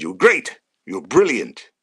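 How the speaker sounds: loud, punchy compliment; emphatic praise. Retold or imitated. Manager praising debutant as he comes off, loudly. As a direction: belt out each word of praise. Acted gaffer praising player afterwards.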